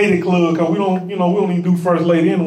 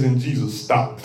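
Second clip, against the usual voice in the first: low, soft "stopped."; quietly spoken verse line; hushed; 8 semitones lower, 5 dB quieter than usual. Shown as a demonstration. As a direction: drop the voice on "And Jesus stopped.". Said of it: "That one thing can preach all by itself".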